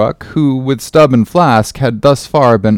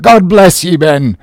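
raised, emotional blessing; half sob, half shout; 4 semitones higher, 3 dB louder than usual. Acted. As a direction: call the blessing out, overcome. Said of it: "half sob and half shout".

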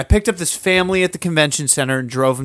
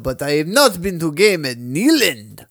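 mock Southern accent; 3 semitones higher than usual. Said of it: "He did say that without the accent".

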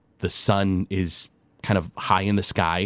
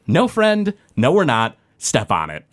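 Roscoe; 3 semitones higher than usual. Acted. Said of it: "And Roscoe goes".

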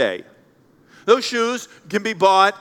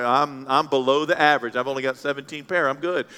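smug congregant; 4 semitones lower than usual. Retold or imitated. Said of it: "you're trying to come up and say".

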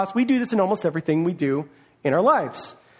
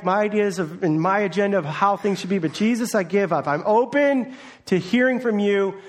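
earnest prayer, sentence by sentence; lightly voiced surrender prayer; spoken prayer. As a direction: pray it aloud for the congregation.

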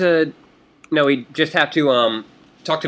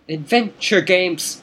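excited; 7 semitones higher, much slower than usual. Real, not acted. Mock game cheer.

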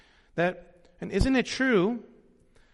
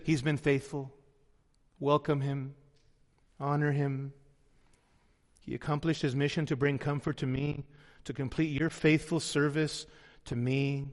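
tender quote; 6 semitones lower, 6 dB quieter than usual. Retold or imitated. Paul quoted commending Epaphroditus.

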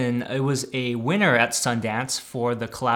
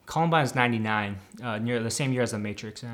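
eating chips; 4 dB quieter than usual. Real, not acted. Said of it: "Sorry, I'm eating chips".

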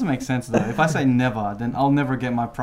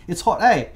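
EH tacked on the end, pitched up; questioning eh tag; 5 semitones higher than usual. Shown as a demonstration. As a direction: turn the statement into a question with EH. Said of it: "we put the A at the end".

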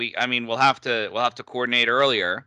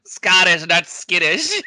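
SCOTTISH loud and higher, set against "skittish"; contrastive stress; 4 semitones higher, 5 dB louder, slower than usual. Pretend. Listener clarifies the punchline word, contrastive stress on "Scottish".

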